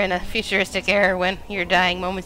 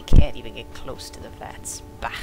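lower, louder mocking voice; mocking imitation; 7 semitones lower, 7 dB louder than usual. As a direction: parrot the taunt in a lower, louder voice. Mocks the NPC's taunt.

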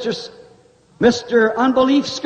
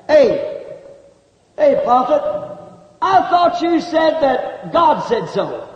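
heckling scoffer. Acted.

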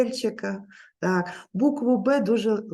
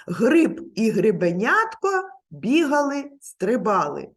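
lively tongue twister. Shown as a demonstration. Teacher drills a tongue twister with children, bouncy. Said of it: "пропоную вам скоромовочки".

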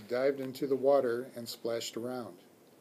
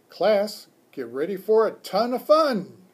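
higher, louder rallying teacher voice; rally the pupils for some fun; loud, upbeat classroom announcement; teacher addressing class; 6 semitones higher, 8 dB louder than usual. A narrator's reading. Teacher calls the class to attention.

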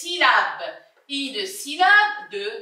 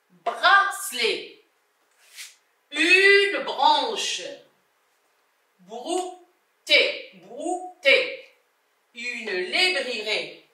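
slow, separated model reading; careful teacher reading example words; word-list reading; much slower than usual. Shown as a demonstration. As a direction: sound out each word deliberately, pausing after each. Teacher reads word list aloud.

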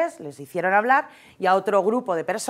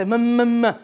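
put-on baby babbling; 3 semitones higher, 3 dB louder, slower than usual.

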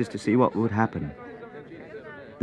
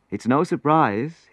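laughing; 7 semitones higher, slower than usual. Acted. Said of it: "he laughed".

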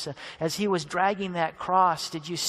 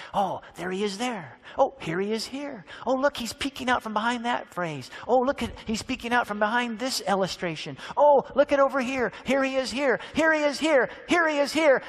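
growing wonder; 3 semitones higher than usual. Acted. Disciples discovering Jesus in Scripture.

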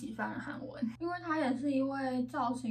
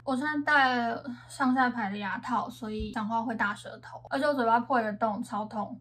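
lisping through braces; thick-tongued from a retainer; wearing a retainer. Real, not acted.

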